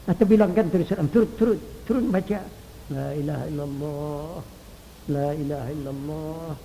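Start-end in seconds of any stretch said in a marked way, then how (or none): 2.9-6.5 hushed, breathy, very soft; whisper. Shown as a demonstration. Preacher showing how to whisper the creed to the dying. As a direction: whisper it into a dying man's ear. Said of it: "bisikkan ke telinganya".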